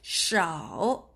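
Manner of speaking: 샤오 stretched very long and slow; slow model syllable. Shown as a demonstration. Teacher drawing out 샤오 for live viewers. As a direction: hold 샤오 out so learners hear every sound. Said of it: "그게 지금 우리 라이브 방송 하는 이유예요".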